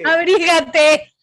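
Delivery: slow, stretched motherly voice; drawn-out mock mother. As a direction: drag it out like a doting mom. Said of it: "repeats the mother's line".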